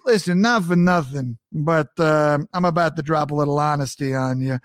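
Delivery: a hint of blunt New York tough talk; New York phrase. Host imitating a blunt New Yorker, light accent. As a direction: lean in and get frank. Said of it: "we say the phrase".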